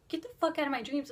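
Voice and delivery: quick, firm mock-angry order; half-serious indignant outburst; retold confrontation. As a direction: fire it off as a fast demand. Retold confrontation with the dream guy.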